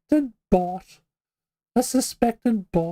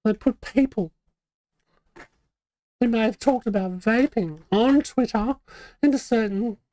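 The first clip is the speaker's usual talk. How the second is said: academic voice. Pretend. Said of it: "I don't know why I'm talking like this".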